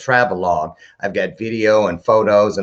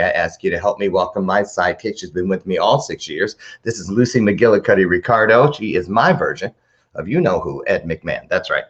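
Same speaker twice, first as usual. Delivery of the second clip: usual speaking voice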